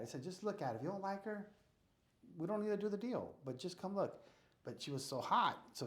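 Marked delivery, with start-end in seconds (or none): 0.2-4.2 high, eager coaxing; eager pleading. Retold or imitated. Urging old friend Andrew to see the house, high eager pleading. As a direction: talk your friend into it, pitch way up.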